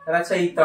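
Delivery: रचयिता as "rachayita", with "i" after "y"; correct pronunciation. Shown as a demonstration. Teacher answering own question, "rachayita". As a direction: say रचयिता as "ra-cha-yi-ta". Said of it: "क्या होगा?".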